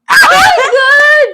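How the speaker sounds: drawn-out shocked cry. Real, not acted. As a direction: exclaim in horror, slowly. She drew the worst item.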